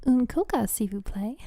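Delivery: casual French ordering phrase; a bit of French. Shown as a demonstration. Streamer shows chat her little bit of French, in casual French. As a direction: order a coke in simple French. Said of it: "Can I speak French?".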